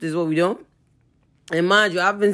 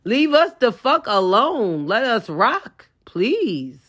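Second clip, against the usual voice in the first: upset plea; 5 semitones higher, slower than usual. Real, not acted. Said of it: "I just got upset".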